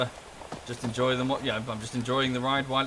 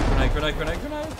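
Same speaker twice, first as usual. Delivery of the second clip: grenade warning yell; 4 semitones higher, 6 dB louder than usual. Real, not acted. Calling out incoming grenade.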